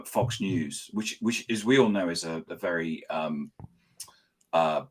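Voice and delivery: slow, dry ironic praise; heavy irony on unbiased; sarcastic. Acted. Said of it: "I'm being sarcastic".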